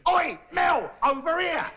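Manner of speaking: shouting from a cab window to a friend, mock shout. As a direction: call out across the street, hammed up. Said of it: "and you shouted".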